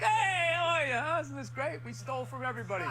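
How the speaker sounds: high, chirpy mock-cheerful tourist host; high cheery mock welcome; cheery white European. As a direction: play a beaming European, lightly voiced. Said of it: "they're like".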